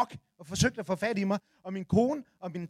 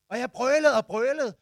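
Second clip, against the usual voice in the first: drawn-out bellow at full lung power; slow, loud roar at the neighbour's house; 5 semitones higher, 8 dB louder, slower than usual. Retold or imitated. Yelling at the window cleaner's house, slow loud roar. Roaring at the dog's owner.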